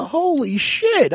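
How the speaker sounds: slow, high, drawn-out amazement; stunned. Retold or imitated. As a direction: let it sink in slowly. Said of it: "I said".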